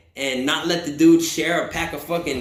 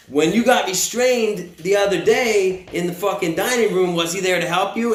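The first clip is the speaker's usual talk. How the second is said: higher-pitched goading question; retold jeering challenge; acted taunt; 3 semitones higher than usual. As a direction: play a guard needling someone. Acts out guard taunting the man.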